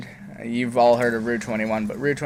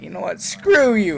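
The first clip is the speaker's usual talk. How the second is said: higher, louder bratty insult; mock angry teen; 8 semitones higher, 5 dB louder than usual. Teen yells an insult at his mom, high and loud. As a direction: spit it at her.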